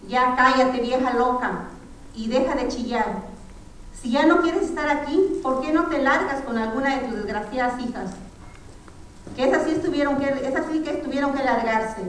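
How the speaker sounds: a son ordering his mother to shut up and leave; angry insult. Acted. Son insulting his praying mother, angry.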